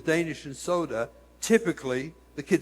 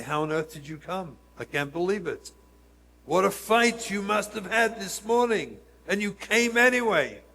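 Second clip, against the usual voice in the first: amazed praise; 2 semitones higher than usual. Retold or imitated. Marvelling at a very late child.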